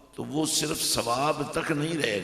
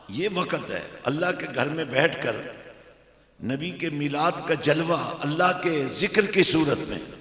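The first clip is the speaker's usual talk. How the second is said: preach; 3 semitones higher, 7 dB louder than usual. Real, not acted. Preaches with force to congregation.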